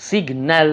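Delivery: সিগন্যাল broken into sig and nal; two separate syllables. Shown as a demonstration. Teacher counting syllables for students, সিগন্যাল said in two parts. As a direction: say সিগন্যাল in two distinct beats. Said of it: "double syllable".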